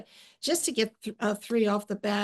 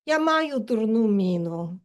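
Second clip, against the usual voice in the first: mother's phrase; 4 dB louder than usual. Retold or imitated. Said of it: "the first sentence in Ukrainian".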